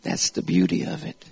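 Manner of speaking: whispered low after the shouting; hushed. Real, not acted. Preacher hushing the room after the climax, whispered. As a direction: let it fall to a breath.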